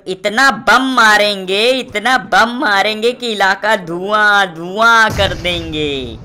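slow, drawn-out movie-villain threat; filmy villain boast. Pretend. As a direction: deliver it like a hammed-up Bollywood villain line.

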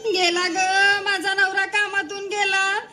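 hammed-up weeping wife; mock crying. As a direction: wail it like a wronged wife. Wife wails over husband. (खोटं खोटं रडत)

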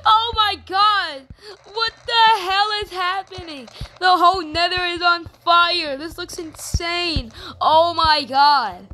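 high, loud, frantic panic; frantic shouting. Real, not acted. Gamer seeing the nether on fire, high frantic shouting. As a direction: yell in disbelief at the chaos.

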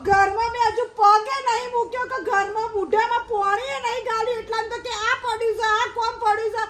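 high-pitched, wailing list of grievances; tearful complaint. Acted. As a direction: pour out woes in a hammed-up whine. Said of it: "જોર જોરથી રોવે છે".

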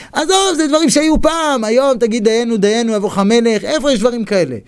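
high, dismissive protest; imitated incredulous objector; scoffing sceptic. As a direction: brush it off in exasperated disbelief. Acted sceptic dismissing the stories.

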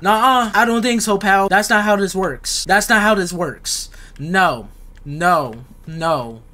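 insistent objection, voice up; alarmed protest. Real, not acted. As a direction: protest firmly in a high, panicky voice. Refusing as monster approaches.

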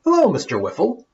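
bright, high, quick fearless call; calling out boldly. Acted. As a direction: call up to the monster unafraid. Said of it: "Lala called with no fear".

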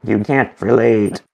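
slow mimicking repeat; playful drawn-out echo. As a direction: stretch the words to match the child. Echoes the child's drawn-out catchphrase.

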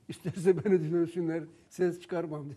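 loud, laughing retelling of the patient's words; laughing quote. Retold or imitated. Herbalist retells a calmed patient's boast, laughing. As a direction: quote him through a laugh.

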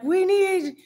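high, slow eager ask; drawn-out excited request; kid-like plea. Retold or imitated. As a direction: plead it slowly like an excited kid. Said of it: "and is like".

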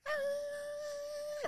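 tiny, high, held scream; imitated distant scream. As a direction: mimic screaming heard from far away.

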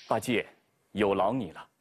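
a kindly master thanking his pupil; Tang Seng. Acted. Tang Seng thanks Bajie, low and gentle.

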